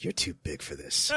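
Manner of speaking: low, hushed aside; imitated whispering. Comic imitating Matt whispering to Lewis, hushed. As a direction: mimic a furtive whisper, softly. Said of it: "he was just whispering to Lewis".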